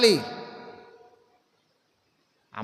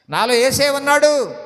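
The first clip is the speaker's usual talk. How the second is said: higher, ringing declaration of faith; bold declaration; 5 semitones higher, 4 dB louder than usual. Shown as a demonstration. Believer telling the in-laws that Jesus lives within, boldly. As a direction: say it out with confidence. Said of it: "చెప్పాలి ధైర్యంగా".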